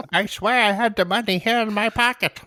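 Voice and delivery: panicked movie quote. Acted. Quoting the uncle's panicked line.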